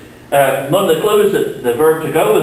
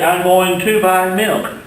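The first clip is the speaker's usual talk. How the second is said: slow, careful model sentence; slow example sentence; 4 semitones higher, slower than usual. Shown as a demonstration. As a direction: read the example slowly and clearly. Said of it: "I might say".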